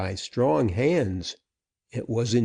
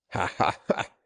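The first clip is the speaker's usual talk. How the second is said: mocking breathy laugh; 3 semitones lower than usual. A narrator's reading. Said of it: "the outlaw laughed".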